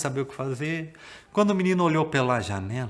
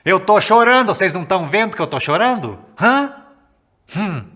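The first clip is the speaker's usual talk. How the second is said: higher, louder exasperated wail; wailing mother; 6 semitones higher, 9 dB louder than usual. Acted. Mother protesting to the giants, hammed-up tearful wail. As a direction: cry out your complaint to the giants. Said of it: "ela começou a chorar".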